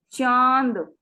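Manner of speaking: चांद with a soft nasal vowel. Shown as a demonstration. Teacher contrasts a soft nasal with a hard one. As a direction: let चांद hum through the nose gently. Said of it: "चांद soft अपने आप सुनने में".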